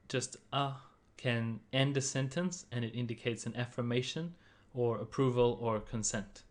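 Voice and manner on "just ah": light unstressed ah; 轻声的啊; neutral tone ah. Shown as a demonstration. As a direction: toss off ah without a tone. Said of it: "the fifth tone".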